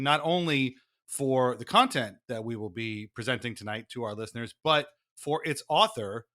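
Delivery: stately, formal host intro; a hint of a solemn theatre host; mock theatre host. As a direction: play the grand television presenter.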